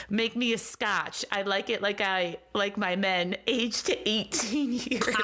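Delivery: lightly put-on Wisconsin accent; sultry Wisconsin accent line. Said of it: "almost a Wisconsin accent".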